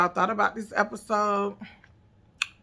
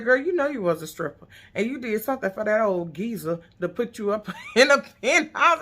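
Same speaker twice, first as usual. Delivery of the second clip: retold quote breaking into laughter; retelling the funny line, laughing; 3 semitones higher than usual. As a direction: crack up at the end of the quote. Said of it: "she said".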